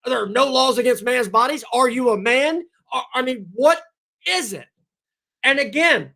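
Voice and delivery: ordinary talk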